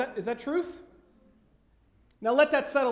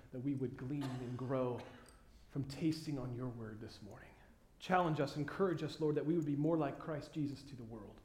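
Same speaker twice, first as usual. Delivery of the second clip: soft, low-pitched prayer, trailing quieter toward the amen; congregational prayer; 4 semitones lower, 5 dB quieter than usual. Real, not acted. Pastor praying for the congregation before the message, hushed prayer. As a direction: pray earnestly, letting the voice settle lower.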